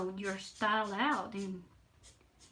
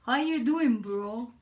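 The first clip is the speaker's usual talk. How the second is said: mock bro greeting; 7 dB louder than usual. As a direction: ham up a casual bro saying hi. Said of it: "You thought it was going to be".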